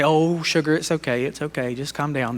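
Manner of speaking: put-on talking down to someone as if to a child, sweetly; babying. Speaker mocks coddling an upset person, babying them with sugary softness. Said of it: "You're not trying to baby them".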